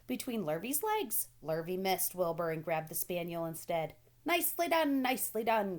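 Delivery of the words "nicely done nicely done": loud, high, urgent goose; a bossy goose barking orders; goose crying out. A narrator's reading. Goose shouting orders to Wilbur, loud and high. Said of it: "cried the goose".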